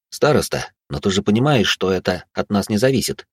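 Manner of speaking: easy smiling reply; with a smile. Acted. Konrad answers the head girl with a calm smile. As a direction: say it smiling, unbothered. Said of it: "с улыбкой произнёс я".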